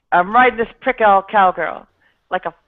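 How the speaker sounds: sleazy swagger; Andrew Dice Clay impression. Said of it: "Andrew Dice Clay things".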